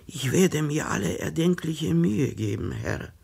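a mild hint of a frightened tailor pleading; frightened stammer. A sick tailor begging his customer for work, mildly frightened. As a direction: plead nervously, lightly voiced. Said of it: "stotterte der Schneider ... vor Angst".

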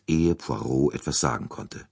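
ordinary delivery, nothing marked

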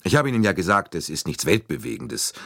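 a touch apologetic, downplaying. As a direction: mildly excuse yourself. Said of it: "fast als wolle er sich entschuldigen".

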